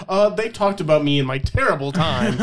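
high-pitched mock complaint; whiny reviewer. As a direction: lightly mimic an aggrieved customer. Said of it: "He's like, gives our podcast".

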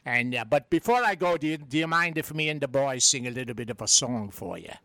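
a lightly voiced stage Irish brogue; a hint of a cheeky Irish charmer; Patio Furniture Irish brogue. Irish visitor flirting with the lovely lass, in a light Irish brogue. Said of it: "It's me, Patio Furniture".

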